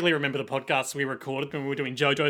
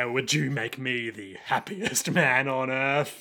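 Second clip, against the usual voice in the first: low sinister voice; 3 semitones lower, slower than usual. Acted. Sinister scene acted.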